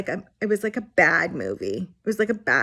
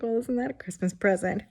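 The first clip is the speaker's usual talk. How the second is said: sarcastic; 2 semitones higher than usual. Retold or imitated. Sarcastic reply to nurses.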